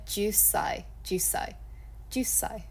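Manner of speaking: jusai slowed, with a held s after ju; slow drill. Shown as a demonstration. Teacher drilling the long s sound for learners. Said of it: "add an S onto the end".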